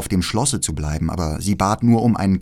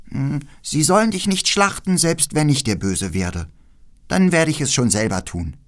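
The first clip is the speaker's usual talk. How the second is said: leicht gesprochenes Räubermädchen; 6 semitones higher than usual. Acted. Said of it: "nickte ein wenig ... und sagte".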